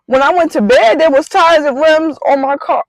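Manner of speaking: high, stunned retelling of the night before; reliving the shock of finding the car bare; disbelief. Retold or imitated. To her fiance, repeating it in high disbelief. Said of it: "in disbelief".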